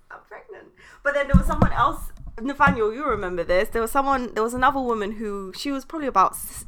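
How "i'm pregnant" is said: breathy whispered "pregnant", barely voiced; whispered secret. Recalling her secret pregnancy, a soft whisper. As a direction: hush it like a nice little secret.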